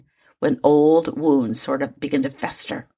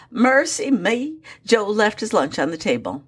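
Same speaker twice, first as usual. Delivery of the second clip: Southern accent; 4 semitones higher than usual. Shown as a demonstration. Host giving a second example, drawled Southern accent. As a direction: lift and stretch mercy me in a Southern accent. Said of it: "See, the Southern accent fits it".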